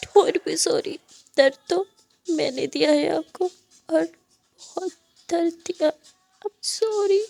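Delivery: sobbing I'm sorry; guilty tearful apology. Acted. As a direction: pitch climbing, breaking into a cry on sorry. Muskan's guilty apology breaking.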